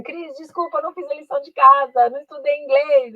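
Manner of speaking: mock apologetic student. Student confessing undone homework to teacher, mock apologetic. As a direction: lightly plead like a sorry student.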